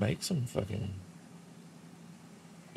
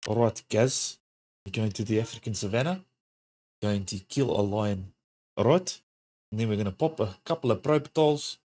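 put-on South African accent. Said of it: "I've heard worse accents".

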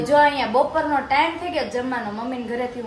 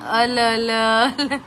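imitating engine; 3 dB louder, much slower than usual. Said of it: "એમ બોલે?".

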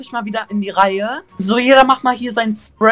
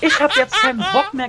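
put-on girl voice; 9 semitones higher than usual. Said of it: "der redet mit sich selber mit zwei Stimmen".

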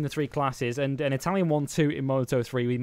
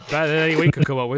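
laughing; 7 dB louder, faster than usual. Real, not acted. Laughing at the accent impression.

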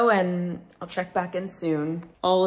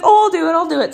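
much higher and louder mock landlord; girly voice for landlord; 11 semitones higher, 9 dB louder, faster than usual. Quoting her landlord offering to move the truck, high girly voice. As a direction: play the man as a breezy girl. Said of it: "I just did that voice".

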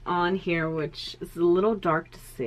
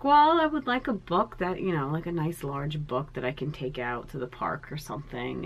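lightly mimicked own past voice. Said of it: "And I was like".

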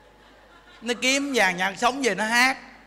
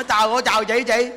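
mock frightened reply; 3 semitones higher, 5 dB louder than usual. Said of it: "Nó".

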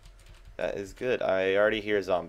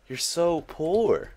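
high, loud, drawn-out teasing; mock jeer; 10 semitones higher, 6 dB louder, much slower than usual. Gamer teasing himself over celebrating rotten flesh, mock jeering.

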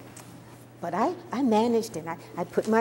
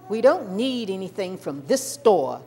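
angrily; 5 dB louder than usual. Retold or imitated. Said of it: "she said angrily".

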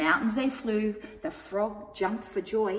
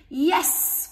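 bright higher cry; eager yes; 7 semitones higher, 4 dB louder than usual. A narrator's reading. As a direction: welcome the dog aboard gladly. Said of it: "cried the witch".

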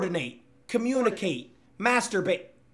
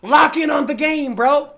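angry shout; 5 semitones higher than usual. Real, not acted. Streamer yells at teammate.

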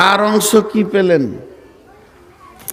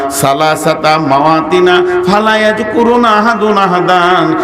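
melodic sermon. Real, not acted. Preacher warns Ayesha of Judgement Day, in melodic sing-song preaching. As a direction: preach in a sustained chant, swelling on the big phrases.

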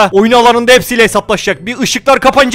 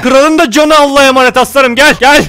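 tough guy catchphrase; 3 semitones higher, 3 dB louder than usual. Acted. Same catchphrase again.

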